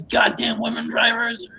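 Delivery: half-hearted imitation of an exasperated scream; mock scream. Retelling the doll after the car crash, slow mock scream. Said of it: "and he screams".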